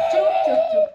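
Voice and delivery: high, loud shushing; firm hush. Real, not acted. Mother hushes her crying toddler, sharp loud shush.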